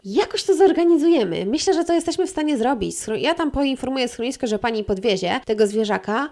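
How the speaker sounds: high, loud, mocking voice of the officer. Officer finally agreeing to help, voiced high and mocking. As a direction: ham up the officer giving in. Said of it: "officer relents".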